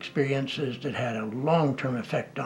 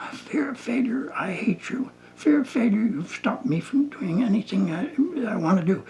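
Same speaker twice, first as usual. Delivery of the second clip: retelling a client's outburst in a high, rising voice; mock the client building up against her fear; 7 semitones higher than usual. Client yelling at a pillow, retold with high rising pitch. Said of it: "her voice is rising".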